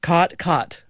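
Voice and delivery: "Caught, caught" both with the same open ah vowel; "Caught, caught" said alike, no cot-caught contrast; merged vowels. Shown as a demonstration. Guest asked to say both words merged. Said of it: "Say them together".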